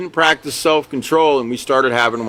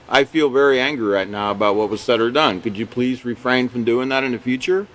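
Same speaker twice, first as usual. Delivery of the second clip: calm, lower-pitched polite complaint; polite request; 3 semitones lower than usual. Acted. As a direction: state the anger evenly, without heat. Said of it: "You can say that very politely".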